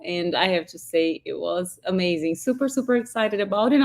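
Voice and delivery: hoarse, worn-out voice; losing voice. Real, not acted. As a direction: talk through a voice that's nearly gone. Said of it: "I'm sorry I'm losing my voice".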